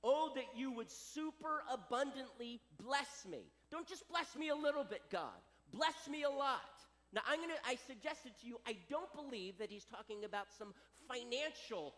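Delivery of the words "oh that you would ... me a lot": pleading prayer. Retold or imitated. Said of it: "he's basically saying".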